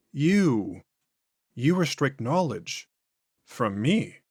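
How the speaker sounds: slow, drawn-out otherworldly voice; an ancient thing speaking through a man; eerie, unhurried entity; possessed alien voice. Acted. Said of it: "voice and inflections are noticeably different".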